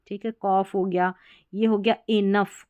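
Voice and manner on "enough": इनफ said slowly with a clear final f. Shown as a demonstration. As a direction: spell out the sound of इनफ, "i-naf". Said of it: "जीएच को फ पढ़ा जा रहा है".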